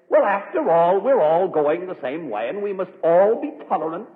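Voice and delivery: lightly mimicked plea for tolerance; mimicked objector. Guest urging everyone in the room to be tolerant, mimicked objector.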